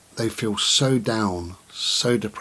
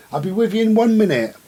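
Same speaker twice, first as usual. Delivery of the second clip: much higher, louder pet-calling voice; calling the dog; 11 semitones higher, 6 dB louder, faster than usual. Real, not acted. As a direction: coax the dog over, high and bright. Promising the dog a walk.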